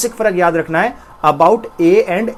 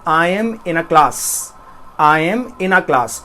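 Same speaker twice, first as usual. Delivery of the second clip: British accent; much slower than usual. Shown as a demonstration. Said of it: "ए का sound आ ... British accent होता है".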